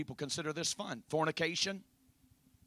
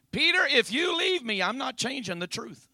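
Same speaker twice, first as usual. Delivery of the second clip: raised, high voice, easing toward the end; emphatic declaration; 8 semitones higher, 11 dB louder than usual. Acted. Preacher voicing the Lord's answer to Peter, emphatic. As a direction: burst out firmly, then settle slightly.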